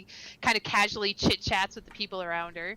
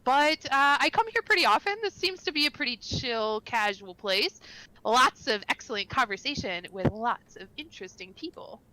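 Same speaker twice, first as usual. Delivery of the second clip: bubbly, raised voice of a sociable local; friendly chatty half-elf; 4 semitones higher, 4 dB louder than usual. Acted. Castry greets the new arrival at the bar, bubbly. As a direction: gush at the newcomer.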